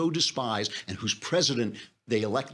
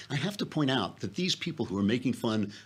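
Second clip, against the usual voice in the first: usual speaking voice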